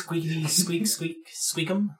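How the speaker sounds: squeaky rat chatter; rubbery high squeaky toy. Acted. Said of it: "Translates to squeaky".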